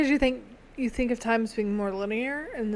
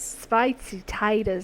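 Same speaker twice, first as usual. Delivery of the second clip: mock Australian accent; 2 semitones lower, slower than usual. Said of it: "work on my Australian accent".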